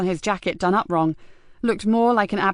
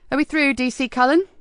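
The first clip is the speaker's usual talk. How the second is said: icy; 6 semitones higher than usual. A narrator's reading. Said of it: "asked Nicky rather icily".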